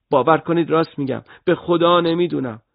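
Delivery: high, loud hurried begging; frightened pleading. Acted. Terrified boy pleading with his interrogator, frightened. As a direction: talk fast to stop the beating.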